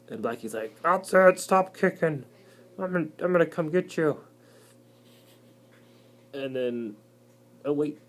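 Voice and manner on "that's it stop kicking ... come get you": high, loud huffy threat; lightly hammed-up menace; mock angry black widow. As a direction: stomp in to get them.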